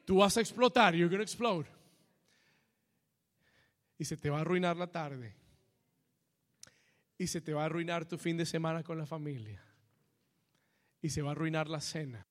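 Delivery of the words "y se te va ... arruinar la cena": hushed aside. Real, not acted. Lists consequences after outburst.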